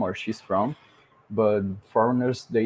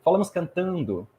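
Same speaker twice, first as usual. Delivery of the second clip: lilting Brazilian Portuguese accent, every vowel sounded out; open, melodic Brazilian accent; sing-song Brazilian; 4 semitones higher than usual. Shown as a demonstration. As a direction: speak Brazilian Portuguese as if singing. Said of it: "that we speak singing".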